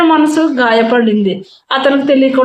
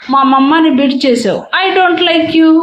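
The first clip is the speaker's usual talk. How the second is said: put-on sulky child; 5 semitones higher, slower than usual. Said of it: "మొహం తిప్పుకున్నాడు".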